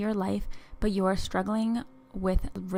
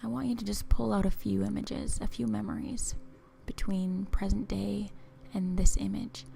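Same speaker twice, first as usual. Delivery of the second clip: guided visualization. Acted. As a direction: ease the listener along, unhurried and hushed.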